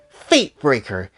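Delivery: haughty attendant. Acted. Caroline role voice.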